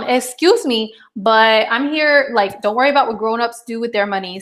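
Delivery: sassy excuse me, slightly stressed; firm mother setting a boundary, half-joking; mock indignant mom. Mom to kid over money, mock indignant. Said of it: "And I'm like".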